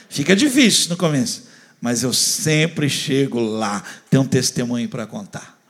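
loud, rising preacher's push; full-force pulpit preaching. Acted. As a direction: fire up the congregation.

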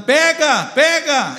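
loud, high cry imitating a man yelling; retold shouting. Drunk man recalls someone yelling in church, imitated shout. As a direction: yell it out twice as the overheard preacher. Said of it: "tinha um homem aqui gritando".

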